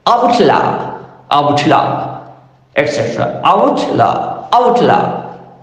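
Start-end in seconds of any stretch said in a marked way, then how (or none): 0.1-2.4 "Outlaw" said OUT-law; noun stress demo. Shown as a demonstration. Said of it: "Another examples are also there". 3.4-5.5 "Outlaw" said OUT-law, falling; noun stress demo. Shown as a demonstration. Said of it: "Another examples are also there".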